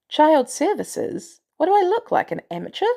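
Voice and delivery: scoffing disbelief. Acted. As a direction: scoff at the idea she can't manage it. Maria scoffs at Clint's request.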